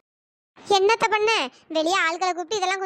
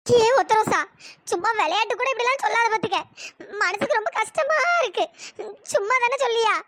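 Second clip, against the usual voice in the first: a touch of crying disbelief; pleading tearful. Acted. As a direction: call her name, then plead through tears. Neighbour pleads, near tears. (கண்ணீருடன் கெஞ்சுவது)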